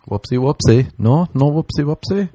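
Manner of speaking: put-on high babyish whoopsie; baby talk. Apologizing to the girl, high baby talk. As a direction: coo like a toddler.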